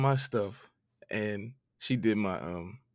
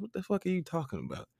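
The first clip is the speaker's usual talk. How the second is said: raised, disbelieving what-are-you-talking-about; incredulous retort; 7 semitones higher, 6 dB quieter than usual. Retold or imitated. To his grandmother on the phone, incredulous retort. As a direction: toss it back in mock outrage.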